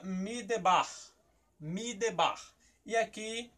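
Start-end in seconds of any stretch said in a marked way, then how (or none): 0.0-0.9 midebar with a clear A in the last syllable; pronuncia ebraica. Shown as a demonstration. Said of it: "Por que que você pronuncia". 1.6-2.4 Midebar as a model word, final A open; pronuncia ebraica. Shown as a demonstration. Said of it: "Por que que você pronuncia".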